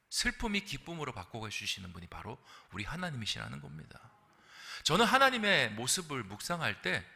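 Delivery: ordinary delivery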